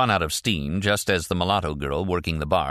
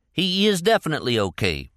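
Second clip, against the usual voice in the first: impatient; 10 semitones higher, 3 dB louder than usual. A narrator's reading. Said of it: "Leroy agreed impatiently".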